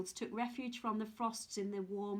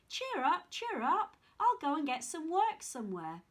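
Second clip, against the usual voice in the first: put-on cheery boy; 5 semitones higher, 4 dB louder than usual. Jack cheering his mother.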